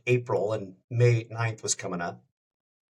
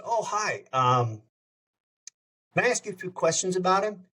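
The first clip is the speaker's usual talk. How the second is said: eager raised voice; 7 semitones higher than usual. Retold or imitated. Eager caller greeting Dwight's brother.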